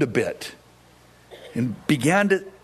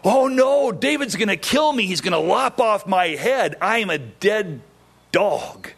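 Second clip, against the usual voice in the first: panicked cry; 5 semitones higher than usual. Acted. Mephibosheth fearing King David, high panicked cry. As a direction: panic that the king will kill him.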